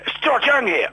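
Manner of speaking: high, hammed-up Scottish voice; bad Scottish accent. George introducing himself on the phone, mock Scottish accent. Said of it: "I'll do the bad Scottish accent".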